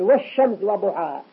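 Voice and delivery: "والشمس" as wash-shams, no l; sun-letter assimilation. Shown as a demonstration. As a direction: double the sh of "والشمس". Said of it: "نسمع فيها شدة". (إدغام لام "والشمس" في الشين)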